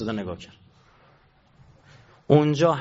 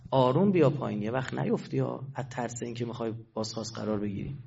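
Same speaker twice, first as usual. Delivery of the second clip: soft, careful coaxing, fading quieter; gentle reassurance; 3 semitones lower, 5 dB quieter than usual. Acted. Master telling a frightened servant to come down carefully, gently reassuring. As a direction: talk someone down gently, voice sinking.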